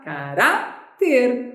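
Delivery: caráter dito devagar, com o RA bem marcado; caráter, alongando e acentuando o RA; slow stressed word. Shown as a demonstration. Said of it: "Qual é a sílaba mais forte?". (caráter pronunciado pausadamente com ênfase no RA)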